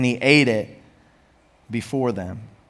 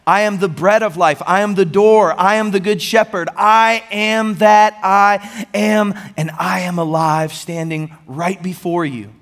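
rising higher and louder, slowing hard on the last line; building preaching fervor; 5 semitones higher, 4 dB louder than usual. Acted. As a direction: swell each I am until the final one rings out.

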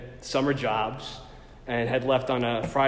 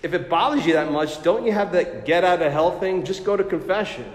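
breezy friend; 4 semitones higher, 4 dB louder than usual. Retold or imitated. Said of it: "a friend of mine who said".

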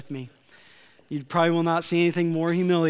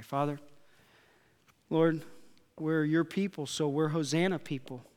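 prayer. Acted. Leads prayer.

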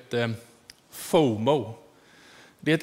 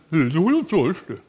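put-on louder stubborn old lady, mouth full of sugar; Agnes stubborn denial; 6 dB louder than usual. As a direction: insist through a mouthful of sugar cubes. Agnes förnekar med sockerbitar i munnen. (envist förnekande med munnen full)

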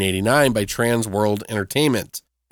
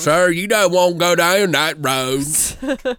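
slow, ominous warning from a gas station attendant; slow ominous raspy drawl; 4 semitones higher, 3 dB louder than usual. Retold or imitated. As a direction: drawl it out like a creepy local. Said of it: "'cause he goes".

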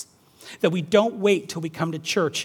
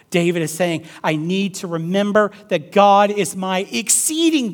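raised, driving preacher's voice; impassioned preaching; 4 semitones higher, 8 dB louder than usual. Acted. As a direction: press the point on the congregation. Preaching at full force.

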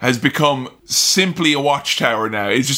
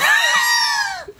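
laugh. Real, not acted. Cracking up at own impression.

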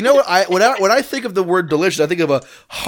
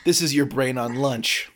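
deep ad slogan voice; 6 semitones lower, 6 dB quieter than usual. Pretend. Parody of the PSA slogan.

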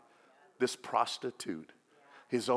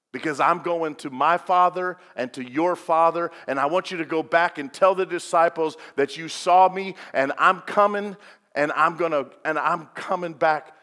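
loud, raised preaching voice; urgent commission in a raised voice; emphatic charge; 3 semitones higher, 7 dB louder than usual. Retold or imitated. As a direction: drive the message home, loud and insistent. Preacher voices Jesus's charge to Mary.

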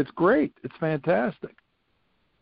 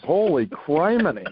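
amazed exclamation; 4 semitones higher than usual. Real, not acted.

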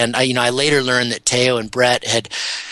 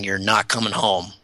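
a hushed, softer voice repeating a warning; eerie inner voice; 2 semitones lower, 4 dB quieter than usual. Retold or imitated. Podcast guest retelling the voice in his head, hushed and eerie. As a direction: let it sound like a quiet voice in his head. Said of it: "I had this crazy voice in my head".

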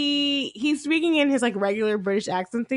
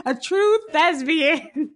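mock-grand; 4 semitones higher, much slower than usual. Mock praise of the actor.

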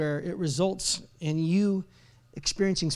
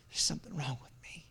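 whispered inner confession, low; very soft, low acted self-blame; hushed self-doubt; 3 semitones lower, 10 dB quieter than usual. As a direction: admit it to yourself under your breath. Voices private thought at the mirror.

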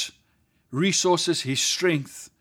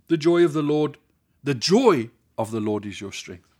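"joy" lifted and held in "The joy of the Lord"; stress on joy. Shown as a demonstration. Preacher showing the congregation, stress on "joy". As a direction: lean on the word "joy" each time. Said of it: "put different emphasis in different places".

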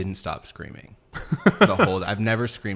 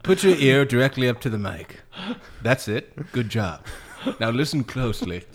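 mock ASMR coax; 4 semitones higher, 4 dB louder than usual. Mock ASMR instructions to listener.

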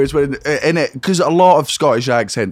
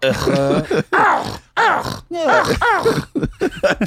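dog bark noises. Acted. Trading dog impressions, seagull-like noises.

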